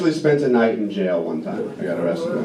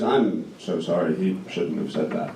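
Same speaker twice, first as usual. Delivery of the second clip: embarrassed mom; 8 semitones lower, 7 dB quieter than usual. Retold or imitated. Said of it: "she goes".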